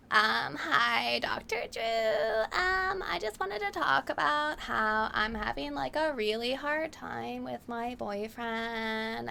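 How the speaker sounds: put-on high, teary, whiny young woman caller; lightly mocking a tearful radio caller. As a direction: play a caller close to tears, high and whiny. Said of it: "she would say".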